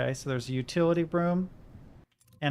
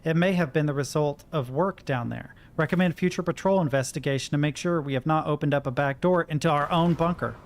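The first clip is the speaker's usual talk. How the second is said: reading a report. Acted. Reads a wartime report aloud.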